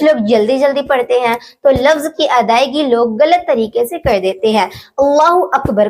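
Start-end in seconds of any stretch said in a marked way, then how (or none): 5.0-5.9 "अकबर" with a stretched first vowel, "aakbar"; mispronounced Akbar. Shown as a demonstration. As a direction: say "अकबर" wrongly, opening with a long aa. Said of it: "अल्लाहु अकबर पढ़ देते हैं, जबकि ये गलत है". ("अकबर" को "आकबर" खींचकर, ग़लत तरीके से)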